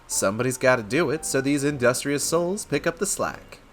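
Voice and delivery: lightly voiced rogue vouching for his friends; easygoing put-on street-wise voice; roguish wolf, reassuring. Wolf vouches for the outcasts, lightly roguish and reasonable.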